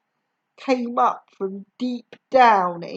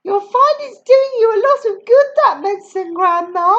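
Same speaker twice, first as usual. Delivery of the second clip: higher, faster coaxing; George reassuring; 9 semitones higher, 7 dB louder than usual. A narrator's reading. George praising the medicine to Grandma, higher quick voice. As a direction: talk it up brightly. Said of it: "George said".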